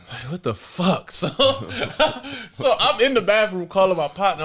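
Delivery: can't stop giggling as he sets it up; breaking into laughter mid-sentence; laughing. Real, not acted. Laughing while telling the story.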